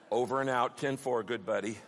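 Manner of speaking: low, offhand radio-style goodbye; perfunctory sign-off. Shown as a demonstration. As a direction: sign off as if barely interested. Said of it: "bored with perfunctory prayers".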